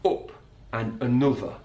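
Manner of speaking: "up" and "another" with a short northern oo vowel; Sheffield uh. Shown as a demonstration. Teacher imitating Harry Maguire's Sheffield vowels. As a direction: say "up" like "oop". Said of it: "But Harry Maguire from Sheffield".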